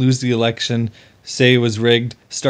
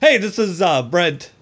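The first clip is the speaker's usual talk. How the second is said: put-on Australian accent; 5 semitones higher than usual. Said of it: "that's my Australian accent".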